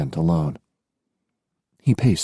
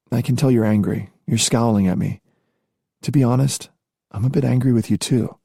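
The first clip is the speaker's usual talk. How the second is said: higher voiced, teasingly candid woman; young woman voice; 5 semitones higher than usual. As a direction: voice the heroine, lightly. Female character voice.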